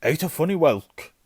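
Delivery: high, loud pompous uncle; loud announcement. A narrator's reading. Uncle informs his wife of news, loudly.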